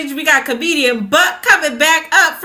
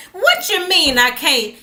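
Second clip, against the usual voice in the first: indignant grandma, pitch climbing higher on each what you mean; playing an outraged grandma who won't be told she can't go to bridge; grandma cutting up; 3 semitones higher than usual. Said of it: "my grandma would be cutting up".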